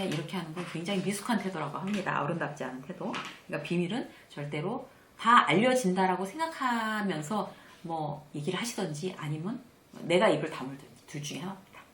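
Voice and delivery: normal talking voice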